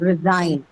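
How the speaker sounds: "resign" with the weight on "SIGN"; stress on second syllable. Shown as a demonstration. Teacher confirming the answer to students, stressed second syllable. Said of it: "Second syllable".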